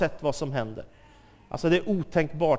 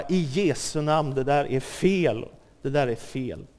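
calm firm rebuke; 3 semitones lower than usual. Retold or imitated. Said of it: "och bara".

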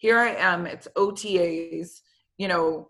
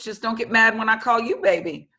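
cheeky retort with a laugh; teasing laugh; 3 semitones higher, 3 dB louder than usual. Retold or imitated. Joking back at the head coach, laughing. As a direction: tease him back, laughing.

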